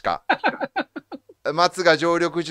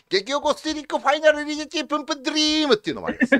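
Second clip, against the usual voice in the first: fast laughing rattle; 10 semitones higher, faster than usual. Shown as a demonstration. Rattling off escalating slang.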